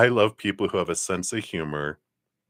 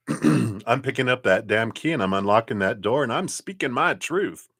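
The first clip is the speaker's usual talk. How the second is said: defiant resolve; 4 semitones higher than usual. Retold or imitated. Voices client's newfound resolve.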